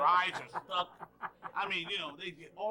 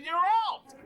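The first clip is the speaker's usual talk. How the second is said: high, very loud out call; acted-out umpire shout; 11 dB louder than usual. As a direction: bellow the call for the punchline. Umpire's punchline call in story.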